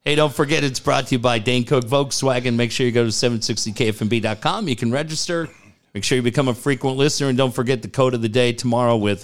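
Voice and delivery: quick announcer liner; radio promo read. Shown as a demonstration. DJ rereading the sponsor promo, quick announcer read. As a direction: rattle off the promo like on air.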